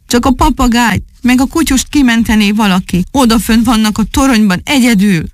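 high, desperate pleading; despairing plea. A narrator's reading. Owner begs someone to save his trapped pets, despairing plea. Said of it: "valósággal kétségbe esett".

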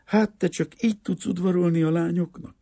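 teasing, climbing into a high pitch; mock pity rising to a high, teasing question; lightly acted amusement, no real laugh; amused, laughing girl. A narrator's reading. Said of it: "A leány nevetni kezdett".

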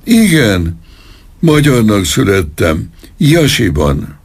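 high, broken admission; high desperate confession; pained confession. A narrator's reading. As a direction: blurt it out to stop the pain. Colonel confesses in pain.

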